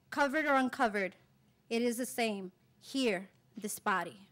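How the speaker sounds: measured poetry recital with deliberate pauses; poem reading. Acted. Poet reading a poem on women's bodies to an audience, measured recital. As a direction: read it phrase by phrase, letting each line land.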